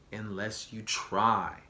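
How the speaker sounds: slow, leaning hard on try; stress on try. Shown as a demonstration. Telling viewers to try, stressing try. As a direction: drag out and emphasize try. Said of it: "Emphasis on the word try".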